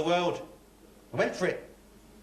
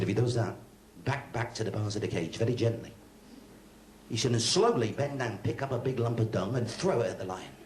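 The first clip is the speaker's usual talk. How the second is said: low, matter-of-fact ringmaster; gruff ringmaster; 9 semitones lower than usual. Retold or imitated. Ringmaster instructs the new lion tamer, low and gruff. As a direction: speak it low like a weary circus boss.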